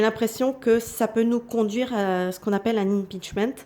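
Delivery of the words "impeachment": "impeachment" in French-tinged English; English accent. Real, not acted. Tarot reader showing off an English word, English accent. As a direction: say "impeachment" with a self-mocking attempt at an English accent. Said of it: "vous avez noté mon super accent anglais".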